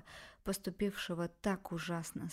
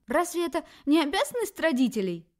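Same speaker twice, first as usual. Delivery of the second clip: higher, louder cry; shouting; 9 semitones higher, 8 dB louder than usual. Acted. Mother cries out at her daughter, strained shout. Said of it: "кричала не своим голосом".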